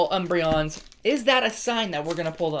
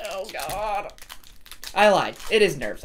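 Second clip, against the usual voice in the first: nervous admission. Real, not acted. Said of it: "I'm definitely nervous".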